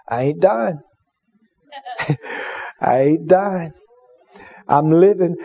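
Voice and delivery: low, weak voice of a dying patient; quiet and faint, clinging on; frail patient voice. Retold or imitated. Patient in hospital bed whispering to the preacher, low and weak.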